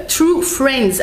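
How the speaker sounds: The title in a strong French accent, tu frennz; English title read the French way, no th or w sounds. Real, not acted. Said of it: "avec mon accent".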